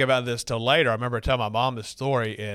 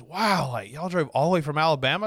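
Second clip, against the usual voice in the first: higher-pitched, mildly astonished quote; a touch of acted surprise; retold amazement; 4 semitones higher than usual. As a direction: marvel like an impressed stranger. Stranger amazed at their long drive.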